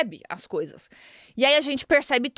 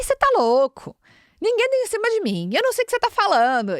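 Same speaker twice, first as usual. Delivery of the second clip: baffled husband; 9 semitones higher, 4 dB louder than usual. Retold or imitated. Husband denies flirting, baffled.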